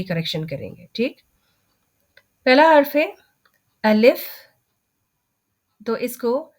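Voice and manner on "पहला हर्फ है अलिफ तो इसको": letter names read with an "e" sound, like बे ते से; wrong traditional letter names. Shown as a demonstration. Teacher shows students the wrong old way: reciting letter names with "e" sounds. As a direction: demo the old way: बे, ते, से, with the "e" vowel. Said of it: "ये जो अभी मैं पढ़ने वाली हूँ ना, ये गलत तरीका है पढ़ने का".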